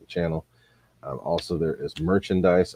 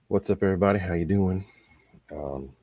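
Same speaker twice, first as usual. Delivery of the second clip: rusty unused voice, worn out; tired voice; 2 semitones higher than usual. Real, not acted. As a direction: talk through a tired, rusty voice. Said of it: "excuse the voice".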